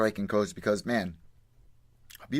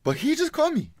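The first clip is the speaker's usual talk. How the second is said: Khabib accent impression; 14 semitones higher than usual. Mocking the Putin clip.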